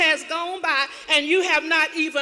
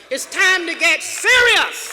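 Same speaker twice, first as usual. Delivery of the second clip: emphatic; 4 dB louder than usual. Acted. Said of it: "repeats for emphasis".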